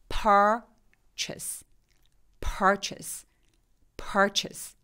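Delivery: purchase with a slack, blurred second vowel; relaxed schwa. Shown as a demonstration. Teacher modeling purchase with a relaxed unstressed vowel. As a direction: drop all force after the first syllable of purchase. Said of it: "한번 해볼게요".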